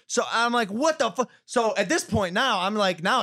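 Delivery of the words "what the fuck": high, incredulous exclamation; mock bewilderment. Boxer reacting to her demands, mock bewildered. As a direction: replay disbelief at a raised pitch.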